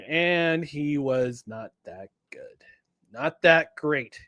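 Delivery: whispered letdown. Real, not acted. Deflated verdict after hype.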